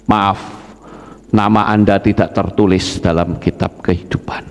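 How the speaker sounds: low, measured angel's refusal; angel's verdict. Acted. Angel tells the soul its name is missing, low grave verdict. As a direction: deliver bad news low and level. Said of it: "dengar suara begitu".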